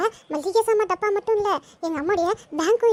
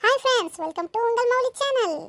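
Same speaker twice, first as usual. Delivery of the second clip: vlog intro; 3 semitones higher, much slower than usual. Acted.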